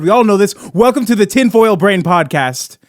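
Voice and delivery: mock-fervent conspiracy show welcome; conspiracy podcast host. Host opening a tinfoil podcast bit, mock-fervent. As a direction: open loudly, as a hammed-up conspiracy host.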